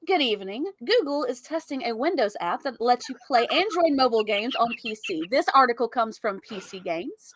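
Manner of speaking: polished, measured news announcer read. Pretend. Co-host reading a tech article on request, in announcer voice. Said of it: "I'll do the announcer voice for this particular article".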